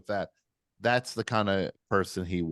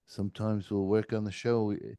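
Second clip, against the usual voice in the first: put-on a weak, terrible New Zealand accent; 3 dB quieter than usual. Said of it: "I'm doing a terrible New Zealand accent".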